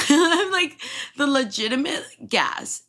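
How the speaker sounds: high laughing voice of disbelief. Real, not acted. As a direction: laugh it out, can't believe it.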